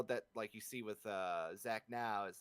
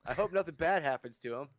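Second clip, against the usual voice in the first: excited fan voice; 3 semitones higher, 9 dB louder than usual. Retold or imitated. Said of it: "you're like".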